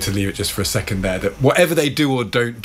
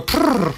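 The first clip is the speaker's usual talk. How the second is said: rolled-lip prrr noise; armadillo trill; 11 semitones higher than usual. Shown as a demonstration. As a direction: trill it like a small animal. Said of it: "What noise do you think an armadillo would make".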